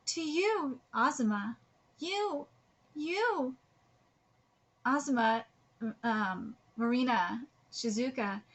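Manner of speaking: farewell letter read with gentle lift; reading aloud. Acted. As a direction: read out a goodbye, rising at the end.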